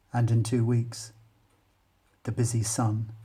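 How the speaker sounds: measured, deliberate reading of a poem. Acted. Teacher reads poem aloud.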